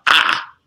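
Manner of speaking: "Ah" as one open Spanish vowel; a lone open "Ah"; Spanish A sound. Shown as a demonstration. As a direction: demonstrate the single Spanish A, "Ah". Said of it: "A makes one sound".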